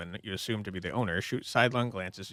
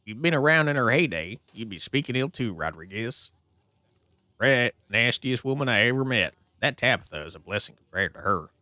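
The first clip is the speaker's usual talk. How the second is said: bitter miner. Acted. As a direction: curse the dead woman. Miner rants about Pearl Ann.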